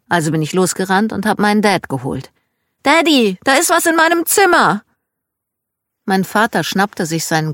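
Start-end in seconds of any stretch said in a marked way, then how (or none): 2.8-4.8 imitating a frightened little girl, much higher and louder; high alarmed child's cry; scared child. Girl runs to tell daddy about a rat, mock scared child voice.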